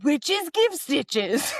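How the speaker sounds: slow, high put-on villain voice; witch voice. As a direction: drag it out like a wrestling heel. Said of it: "What's a witch voice?".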